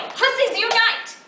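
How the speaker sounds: high, loud slogan shout; rousing battle cry; rallying cry. Acted. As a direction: shout it like a protest chant, drawn out.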